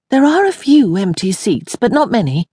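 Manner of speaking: groaning. Acted. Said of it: "Iris groaned".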